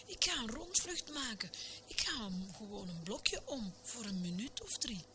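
high, carefree call from afar; light sing-out without real volume; mock shout. A narrator's reading. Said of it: "schreeuwde het schaap Veronica".

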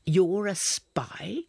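slow, breathless whisper of disbelief; a slow stunned whisper; hushed whisper. Acted. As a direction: whisper it so no one outside hears. Secret accusation in whisper.

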